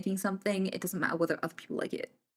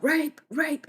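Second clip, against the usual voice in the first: retold boys' shout; 8 semitones higher than usual. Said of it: "all the boys would shout".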